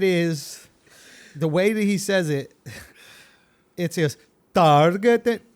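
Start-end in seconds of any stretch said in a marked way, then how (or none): 3.8-5.4 target with a hard, stretched first syllable; leaning into the start. Retold or imitated. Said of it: "he really leans into the beginning of it".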